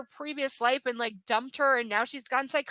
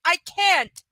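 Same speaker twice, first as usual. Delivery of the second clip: pleading, breaking off, then resigned; upset Anastasia; 4 semitones higher than usual. Retold or imitated. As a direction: push her away, hurt and done. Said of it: "And Anastasia's like".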